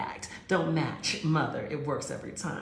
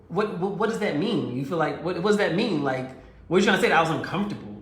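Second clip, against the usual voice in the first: louder, rising defensive retort; defensive boyfriend; 6 dB louder than usual. Retold or imitated. Boyfriend snaps back at her question, defensive and loud. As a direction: boyfriend pushing back hard, getting louder and faster.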